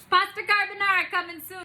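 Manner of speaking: high, loud playful call-out; high, punchy show-host announcement. Pretend. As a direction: sing out the dish like a promo. Announces the dish in a mock-call.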